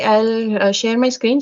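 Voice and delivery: ordinary delivery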